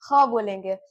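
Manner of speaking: "ख" rasped in the throat; throaty KH demo. Shown as a demonstration. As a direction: say "ख" as a fricative x, Urdu style. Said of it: "मैं जो बोल रही हूँ उस पे आप लोग ध्यान दीजिएगा".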